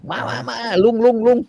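เรียกเสียงสูงและดัง เร่งร้อน; ตะโกนเรียกลุงเงือกให้มาช่วยด่วน; ตะโกนเรียก. Retold or imitated. (สินสมุทรตะโกนเรียกเงือกให้มาช่วย เสียงสูงดัง)

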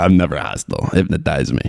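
low imitation of a Chicago accent; Kevin Bacon's Chicago accent. Podcaster riffing on the film's dialogue, mock Chicago accent. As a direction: riff on the film lines in Chicago vowels. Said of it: "he talks like that in every movie".

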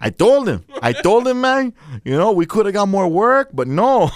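put-on light Mexican-accented grumble; bad Mexican accent, lightly done. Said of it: "your Mexican sounds like Al Pacino's Cuban".

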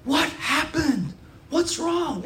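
high-pitched worried asking; retold concern. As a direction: imitate anxious concern, drawn out. Alarmed question to crying kid.

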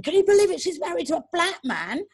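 high, scandalised gasp of a gossiping teacher; shocked gossiping teacher. Retold or imitated. Teacher gossiping at break time, scandalised and high. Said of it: "who had said something".

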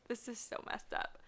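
whispered, half laughing aside. Real, not acted. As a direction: breathe it out as a shocked aside. Aside while reading shocking card.

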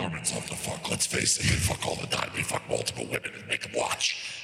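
demonic voice. Pretend. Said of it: "you went for demon vampire party boy".

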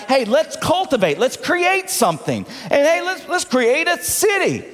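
eager suggestion. Acted. Preacher voicing builders talking to each other, mock-eager high voice. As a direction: pitch it up like a builder with an idea.

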